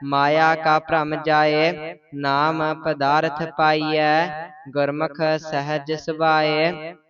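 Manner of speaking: measured, sing-song reading of scripture, line by line; Gurbani recitation. Real, not acted. Student reciting Gurbani to the teacher, measured and even. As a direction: recite each verse evenly with pauses between.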